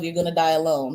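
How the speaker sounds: breaking into laughter on the line; laughing. Real, not acted. Reader tells viewers they'll die alone, laughing. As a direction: say it while cracking up. Delivers a harsh card reading.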